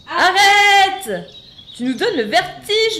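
high, loud, laughing dizzy shout; dizzy cry. Acted. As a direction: yell it while spinning giddily. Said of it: "en tournoyant dans les airs".

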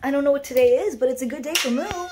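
high sing-song voice for the cat. Real, not acted. Owner baby-talks to her cat.

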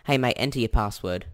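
put-on quick, casual broad Aussie accent; exaggerated Aussie accent. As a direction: toss off the line in a thick Australian accent. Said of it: "exaggerated Aussie accent".

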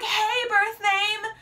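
high, drawn-out mock hello; imitated cheery greeting. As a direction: sing out the friend's greeting, stretched and high. Friend's surprise greeting, retold.

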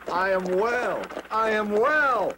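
high, loud cry of relief; overjoyed, healed man shouting home to his family; joyful shout. Acted. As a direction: shout it with joy, slowing on the repeat. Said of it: "he shouted".

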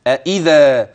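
أإذا, both hamzas fully pronounced, none softened; tahqiq of the hamzas. Shown as a demonstration. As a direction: say أإذا with two firm glottal stops. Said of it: "والصواب في هذه الرواية التحقيق كده". (أإذا بالتحقيق)

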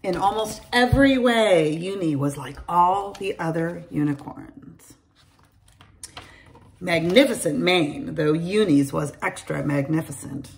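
put-on bright storytelling voice for kids; lively read-aloud for young children; story narration. A narrator's reading. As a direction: read it like a bedtime picture book. Reads a picture book aloud.

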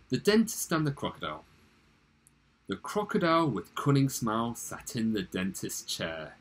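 lively dramatic poem reading; measured storytelling recital of a poem. Acted. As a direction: read the verse aloud with expression.

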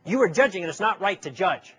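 mock-indignant, overplayed on purpose; overacted accusation. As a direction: ham up the offended friend's rebuke. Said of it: "I'm overacting here a little bit to make the point".

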